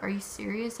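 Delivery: whispered and rising in disbelief; disbelieving whisper. Retold or imitated. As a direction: hiss out the question in shock. Disbelief at towing price.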